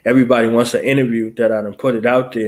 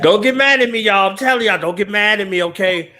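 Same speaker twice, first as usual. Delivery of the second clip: teasing plea; 6 semitones higher, 3 dB louder than usual. Real, not acted. Teasing audience playfully.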